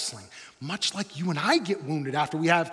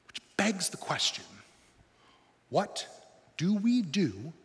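whisper; slower than usual. Real, not acted. Whispered rhetorical question.

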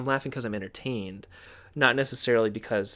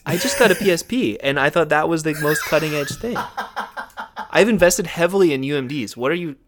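mock outrage; 3 semitones higher, 6 dB louder than usual. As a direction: protest like your world has just been upended. Playing outraged, out-of-date PlayStation fan.

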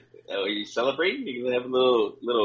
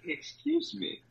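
polite request; 3 semitones higher, 3 dB quieter, slower than usual. Shown as a demonstration. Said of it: "Just say".

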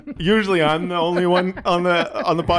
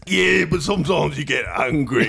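mock Tyson. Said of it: "Mike Tyson?".

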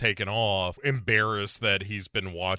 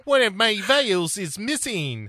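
slow, higher worried line; mock-prim alarm; alarmed Jekyll; 9 semitones higher than usual. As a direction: realize it with dread. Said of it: "Jekyll stops".

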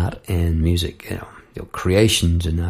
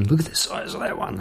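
put-on hushed, breathy whisper of a worried kid; whispered alarm; 3 semitones higher, 5 dB quieter than usual. Kids whisper about the huge spider on the ceiling, hushed alarm. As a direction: whisper it like a child scared of the spider.

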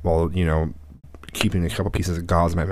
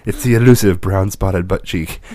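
nature documentary; 6 dB louder, slower than usual. Pretend. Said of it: "You make it sound like a wilderness show".

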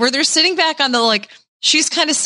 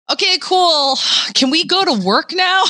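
higher-pitched, impatient brush-off; mock unamused grandfather; 5 semitones higher than usual. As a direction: play a grandpa who is not amused. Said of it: "He was not amused".

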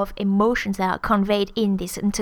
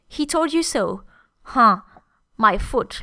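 skeptical. Shown as a demonstration. Teacher voicing he told you so, skeptical. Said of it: "I'm really skeptical".

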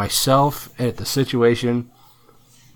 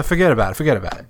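mock New York accent; 2 semitones higher, much faster than usual. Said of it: "you gotta say".

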